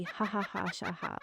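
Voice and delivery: light imitation of kookaburra laughter; understated "ha ha" bird chuckle in rhyme. Shown as a demonstration. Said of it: "The kookaburra laughs".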